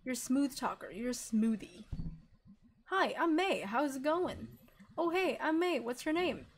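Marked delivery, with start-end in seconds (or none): 2.9-4.5 practiced greeting. Pretend. Rehearsing a party greeting. 5.0-6.5 practiced greeting. Pretend. Rehearsing a party greeting.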